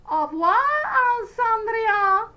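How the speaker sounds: high, slow, mocking farewell; cackling goodbye. A narrator's reading. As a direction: cackle it like spiteful sisters. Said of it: "cackled the means".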